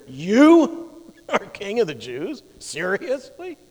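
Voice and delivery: slow, rising disbelief at the king claim; incredulous. Retold or imitated. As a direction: scoff at the idea, slowly. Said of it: "a look of incredulity".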